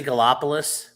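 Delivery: "Gallipolis" said as guh-LOP-uh-liss; questioning guh-LOP-uh-liss for "Gallipolis"; variant pronunciation. Shown as a demonstration. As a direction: stress a LOP syllable in "Gallipolis". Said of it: "how did you pronounce Gallipolis".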